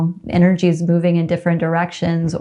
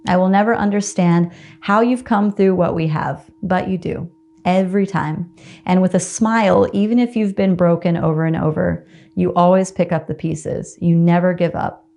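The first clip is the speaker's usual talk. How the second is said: tender letter read aloud. Acted. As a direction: read it like a love letter to yourself, gently. Reads aloud her letter to herself.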